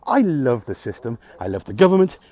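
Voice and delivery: bitter sarcastic praise. Real, not acted. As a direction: say it as if you mean it, dripping sarcasm. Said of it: "I'm being fucking sarcastic".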